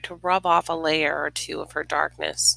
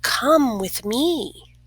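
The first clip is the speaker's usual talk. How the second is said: star's voice; 5 semitones higher, much slower than usual. A narrator's reading. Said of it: "the star said".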